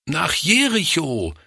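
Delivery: put-on high childlike answer; children calling out. A narrator's reading. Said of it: "riefen sie".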